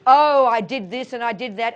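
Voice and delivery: loud, hammed-up self-blame; mock guilty lament. Teacher voicing the guilty inner voice, loud mock lament. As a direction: wail it loudly in mock regret. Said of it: "rather than the guilty nonsense".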